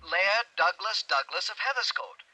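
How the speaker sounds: each name said slowly and clearly; slow and careful. Acted. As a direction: spell the name out slowly for him. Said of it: "Say that slowly".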